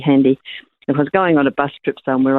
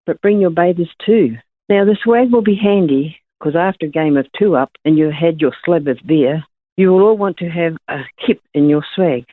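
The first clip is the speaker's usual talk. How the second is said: poem reading; 3 semitones higher than usual. Acted. Caller reads her poem.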